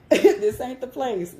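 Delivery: pleading. Retold or imitated. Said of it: "I'm like".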